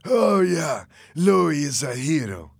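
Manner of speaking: high, slow, sarcastic praise; drawn-out taunt, starting high; mocking. A narrator's reading. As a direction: jeer at him as if admiring. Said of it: "Fernando laughed".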